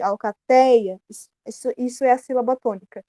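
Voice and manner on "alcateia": Alcateia with TEIA leaned on hard; louder, weightier TEIA in Alcateia; stress on TEIA. Shown as a demonstration. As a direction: make TEIA the strongest syllable of Alcateia. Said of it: "que tem o som mais forte".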